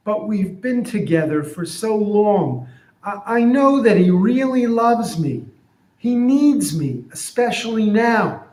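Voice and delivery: donkey insisting it is loved; loyal donkey. Retold or imitated. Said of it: "So here's what I'm imagining".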